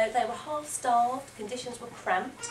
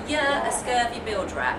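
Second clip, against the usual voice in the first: pirate voice; 2 semitones higher, 6 dB louder than usual. Shown as a demonstration. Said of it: "repeat after me".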